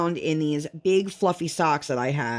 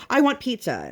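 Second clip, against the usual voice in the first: put-on whiny toddler; 7 semitones higher than usual. Toddler contradicts herself.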